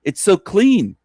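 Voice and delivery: gushing tourist. Retold or imitated. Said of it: "tourists visiting, saying".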